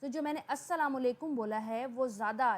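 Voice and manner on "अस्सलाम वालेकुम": अस्सलाम वालेकुम said with a rising tune; rising intonation. Shown as a demonstration. Teacher repeating her greeting example, अस्सलाम वालेकुम on a rise. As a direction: lift अस्सलाम वालेकुम toward its end. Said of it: "यानी कि rise करके बोला है".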